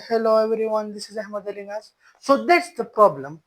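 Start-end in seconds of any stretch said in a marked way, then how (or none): 0.1-1.9 higher, level-toned greeting at ordinary volume; contrasting voice demo. Shown as a demonstration. Speaker demonstrating range of voice to viewers, raised but unforced greeting. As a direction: say hello on one held, raised note, tailing off. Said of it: "And if I say".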